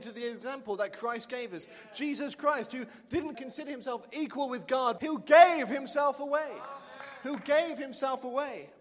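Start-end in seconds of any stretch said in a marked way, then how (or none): 2.0-8.7 fervent preaching. Real, not acted. Preacher exalts Christ's sacrifice.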